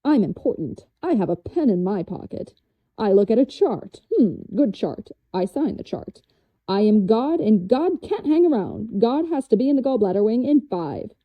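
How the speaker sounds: lightly mocked swaggering doctor; self-important doctor. Mimicking hospital doctors rushing between rooms, mock self-important. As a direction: put on a touch of doctorly swagger. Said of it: "all men swaggering in and out".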